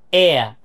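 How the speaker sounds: এয়া as a drawn-out "eh-uh" glide, no r; sound demo. Shown as a demonstration. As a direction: isolate এয়া, gliding from eh to uh. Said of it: "একটা শব্দ আছে". (এয়া টেনে, শেষে র ছাড়া)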